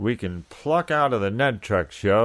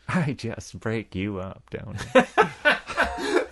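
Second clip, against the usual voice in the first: Paul Lynde; much slower than usual. Acted. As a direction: drag it out, with a hint of Jack Nicholson. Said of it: "almost half sounds like Jack Nicholson".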